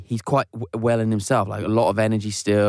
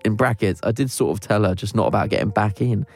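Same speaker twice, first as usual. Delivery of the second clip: steady, slow read-aloud of a listener letter; reading a confession. Acted. Host reading a listener's confession out, in an unhurried read-aloud voice.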